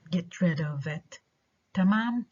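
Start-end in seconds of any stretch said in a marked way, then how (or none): 0.1-1.2 "rid" stressed, "of it" left weak. Shown as a demonstration. Teacher confirming the verb stress, "rid" stressed. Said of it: "the stress is on the second word".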